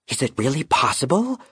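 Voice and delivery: high, gentle raven voice, hopeful; a small bird trying to comfort, pitched high; loyal young raven. Acted. Raven Concord soothing his dying knight, high and gentle.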